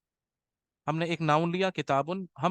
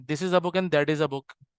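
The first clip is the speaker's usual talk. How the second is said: slow dictation; much slower than usual. Shown as a demonstration. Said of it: "तर्जुमा आप लोग खुद कर सकते हैं".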